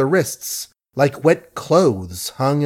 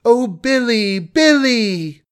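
wailing cry; 11 semitones higher, slower than usual. A narrator's reading. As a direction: cry out his name in terror. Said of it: "she wailed".

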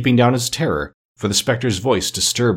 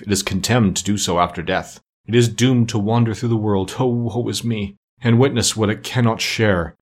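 slightly raised, solemn declaiming; lightly voiced ghost. Ghost answering why spirits walk the earth, mildly solemn. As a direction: lightly play a mournful spirit.

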